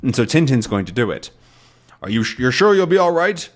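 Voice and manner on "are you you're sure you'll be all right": higher concerned question; worried captain. Retold or imitated. Haddock checks Tintin before the dive, higher voice. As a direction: ask with care before the dive. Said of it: "captain checks on Tintin".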